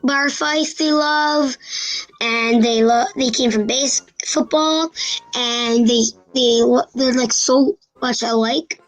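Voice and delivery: blocked nose, nasal sound; stuffy nose. Real, not acted. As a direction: talk through a stuffy nose. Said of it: "sorry, I have a stuffy nose".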